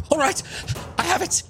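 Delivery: the merchant wizard announcing success; wizard NPC voice. Acted.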